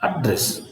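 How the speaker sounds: ADdress, weight on AD in "address"; stress on first syllable. Shown as a demonstration. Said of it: "stress on the first syllable".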